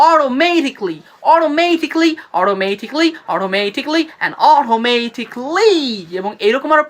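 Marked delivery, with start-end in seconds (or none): 0.1-5.7 flapped t, short "-kli" in each অটোমেটিক্যালি; repeat-after-me pronunciation. Shown as a demonstration. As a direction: drill অটোমেটিক্যালি as "o-ro-MAY-tik-li". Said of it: "আমার সাথে সাথে বলুন".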